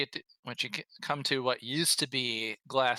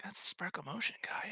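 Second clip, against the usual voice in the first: hushed; 8 semitones higher, 6 dB quieter than usual. Acted. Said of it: "lean in like".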